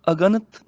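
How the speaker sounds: ਅਗਣਤ as one word, "aganat"; wrong unbroken word. Shown as a demonstration. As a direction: say ਅਗਣਤ without separating the a. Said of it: "ਅਗਣਤ ਨਹੀਂ ਪੜ੍ਹਨਾ". (ਅਗਣਤ ਬਿਨਾਂ ਵਿੱਥ ਦੇ ਬੋਲੋ)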